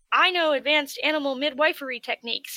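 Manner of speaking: loudly boasting of a rare skill; eager player boast. Retold or imitated. Player eagerly volunteering, loud and proud. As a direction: pitch it like a keen player. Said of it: "they're like".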